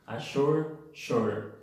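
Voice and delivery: "Assure, sure" with a clear U vowel after the sh; teacher's careful model of "Assure, sure" as "shoor". Shown as a demonstration. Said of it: "se pronuncia como una U".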